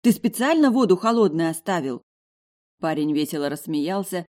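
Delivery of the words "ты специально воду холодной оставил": teeth chattering from the cold; shivering, with chattering teeth. A narrator's reading. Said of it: "стуча зубами".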